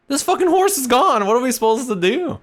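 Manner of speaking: very high, panicky falsetto squeal; high cartoonish mock panic; panicked squeal. Party panicking after wizard swallowed.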